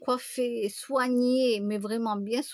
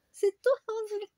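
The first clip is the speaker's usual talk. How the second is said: delighted friend; 10 semitones higher than usual. Retold or imitated. Friend recognizing her at the New Year party, squealing high. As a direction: squeal her name like a thrilled old friend. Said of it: "elle me dit".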